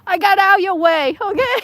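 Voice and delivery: high, loud words squeezed out through laughter; can barely speak for laughing; laughing hard. Real, not acted. Laughing after spoiling a photo.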